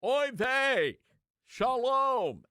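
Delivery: high, loud mock Yiddish accent. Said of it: "he goes".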